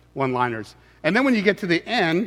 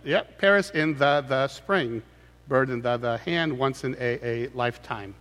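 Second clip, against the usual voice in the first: slow deliberate reading of the doubled words; slow repeated words; 3 semitones lower, 3 dB quieter than usual. Shown as a demonstration. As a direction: slowly read "Paris in the, the spring", leaning on each doubled "the". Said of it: "the word "the" and "a" are repeated".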